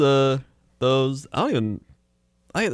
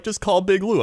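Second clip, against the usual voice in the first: radio ad tag; 10 semitones higher than usual. Retold or imitated. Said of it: "they're like".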